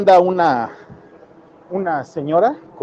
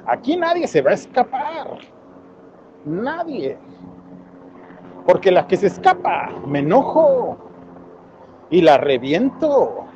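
relishing villain; 4 semitones higher than usual. Retold or imitated. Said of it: "le dice con su voz bien padre".

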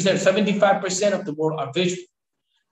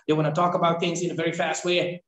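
fast talk; faster than usual. Shown as a demonstration. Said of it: "This is the way they talk".

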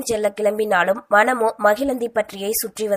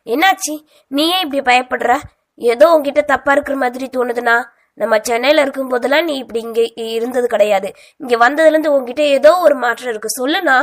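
quick, louder, accusing demand; angry questioning; 3 semitones higher, 4 dB louder, faster than usual. Acted. Sister confronts her brother, fast angry demand. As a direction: press him hard for the truth. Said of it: "வேகமாய் கோபத்துடன்".

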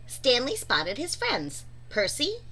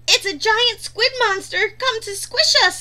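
much higher, louder squeak; squeaky; 10 semitones higher, 6 dB louder than usual. A narrator's reading. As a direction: squeak it out in panic. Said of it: "squeaked Pufferfish".

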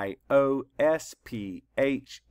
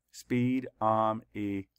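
slowed, each syllable drawn out; 2 semitones lower, slower than usual. Shown as a demonstration. Teacher counting syllables for the class, slow and drawn out. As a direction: count out each beat slowly. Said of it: "Count the syllables".

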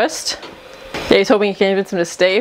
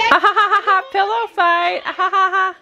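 laughing; 10 semitones higher than usual. Real, not acted. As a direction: laugh it out, delighted. Laughing at pillow fight.

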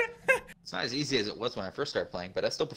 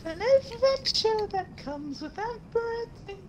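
high, slow ad announcer; slower than usual. Pretend. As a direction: read it like an ad. Announcer-style line.

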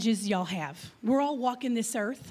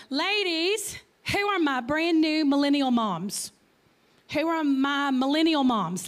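calling out; 2 semitones higher than usual. Real, not acted. Speaker calling on millennial moms to answer, calling out. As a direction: project it out to the whole room.

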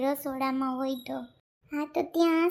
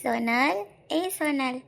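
husband's voice calling; 3 semitones lower than usual. Acted. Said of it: "સંદીપનો જ અવાજ સંભળાય".

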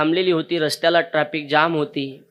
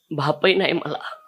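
slow sorrowful confession. Retold or imitated. Boy confesses he has no father.

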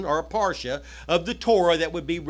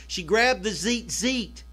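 slow emphatic repeat; slower than usual. Shown as a demonstration. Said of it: "That's the Greek word for coils".

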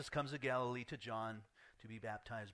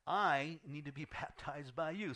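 laughing; 3 semitones higher, 4 dB louder than usual. Retold or imitated. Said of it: "And then he says".

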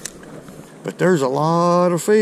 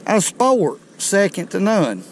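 higher, louder proud declaration; thrilled praise of the sport; excited proclamation; 6 semitones higher, 4 dB louder than usual. Real, not acted. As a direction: proclaim it like a triumphant motto. Proud cry after the catch.

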